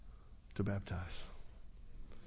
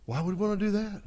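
1 mock incredulous; 7 semitones higher than usual. Real, not acted. Rhetorical question to congregation.

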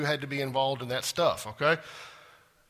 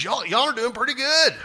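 a touch of redneck twang; redneck Buckleberry; 9 semitones higher, 8 dB louder than usual. Pretend. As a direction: play it like a country preacher. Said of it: "I sound like I'm from redneck Buckleberry".

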